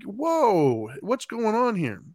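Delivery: high, drawn-out parental "whoa"; startled parent slowing everyone down; retold alarmed intervention. Retold parent breaking up a fight.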